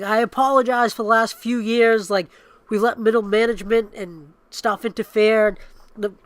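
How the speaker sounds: hammed-up solemn executive; mock corporate apology. To the fans, a mock-solemn apology. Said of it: "he was like".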